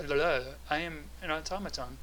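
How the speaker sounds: steady robot voice; automaton voice. Acted. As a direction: speak like a machine. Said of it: "talking in the automaton voice".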